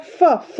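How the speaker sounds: "फ, फ" as two short separate f sounds; phonic sound. Shown as a demonstration. Mother sounds out foot for her child, short phonic f. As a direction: puff out "फ" twice, short and separate. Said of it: "उच्चारण कैसे कर रहे".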